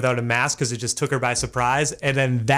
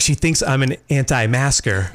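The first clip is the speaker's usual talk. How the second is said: laughing. Retold or imitated. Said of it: "I was like".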